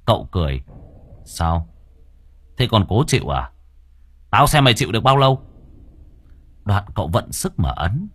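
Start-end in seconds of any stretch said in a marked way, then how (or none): 1.2-5.4 threat. Acted. Master threatens the demon.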